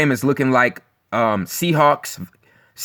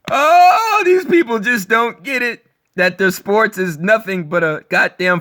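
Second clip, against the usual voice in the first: exasperated outburst; 7 semitones higher than usual. Real, not acted. Scoffing at fans who don't get it, exasperated outburst. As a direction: throw up your hands in disbelief.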